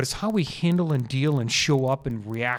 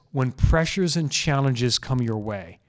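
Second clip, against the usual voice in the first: slow deliberate phrasing. Shown as a demonstration. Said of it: "I say this".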